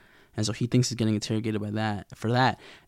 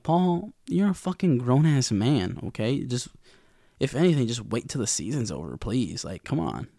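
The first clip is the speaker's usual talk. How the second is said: exasperated scolding. Retold or imitated. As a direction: lecture him, fed up. Scolding character Paul.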